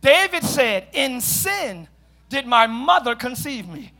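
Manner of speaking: slowed down, spaced out word by word; slow repeat. Shown as a demonstration. Preacher repeats the verse for the congregation, slowly. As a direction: say it slowly with weight on each phrase. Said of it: "I'll say it again slow".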